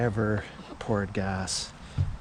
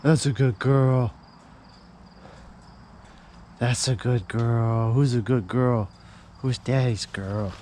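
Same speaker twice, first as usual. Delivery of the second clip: squeaky praising a dog; 5 dB louder than usual. Real, not acted.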